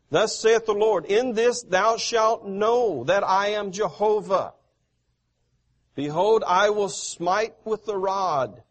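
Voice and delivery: loud, declaiming preacher voice, easing off at the end; forceful scripture reading. Acted. Preacher reading God's words to the congregation, loud and declaiming. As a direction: proclaim God's words from the pulpit.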